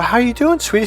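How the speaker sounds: put-on high, lilting greeting to a child; retold fond greeting. Godfather greets goddaughter walking back in, fond lilt.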